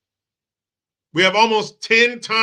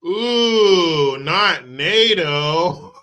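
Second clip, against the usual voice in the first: slow hammed-up terror, whimpering; mocking the woman's fear of Europe; 3 dB louder, much slower than usual. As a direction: fake trembling wail at "not Europe".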